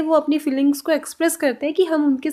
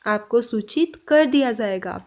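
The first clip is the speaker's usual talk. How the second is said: slow model sentence; 2 semitones lower than usual. Shown as a demonstration. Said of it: "next sentence में अब हम बोल रहे हैं".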